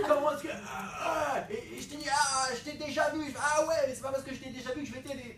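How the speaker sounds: high, loud acted cry; mock dramatic rescue; animated retelling. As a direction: act the drowning scene broadly. Retold poolside exchange, acted.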